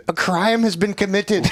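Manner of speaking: high, slow, mock-officious announcement; mock hipster. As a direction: ham up a pompous hipster declaring it. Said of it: "fucking hipster's like".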